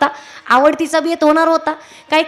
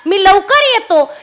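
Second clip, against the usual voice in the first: eager. Retold or imitated. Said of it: "एवढा उत्साहानं तो तिला सांगत होता".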